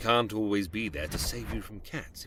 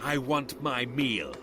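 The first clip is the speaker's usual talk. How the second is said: hunting monster. Acted. Creature hunting the hiding girl.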